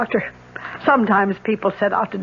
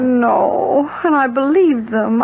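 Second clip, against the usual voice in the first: tearful; slower than usual. Acted. Widow learns she was conned.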